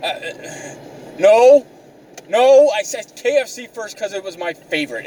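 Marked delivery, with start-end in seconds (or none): 1.2-5.1 emphatic higher-pitched protest; defensive denial. Retold or imitated. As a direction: retell setting the record straight. Defends himself against race accusation.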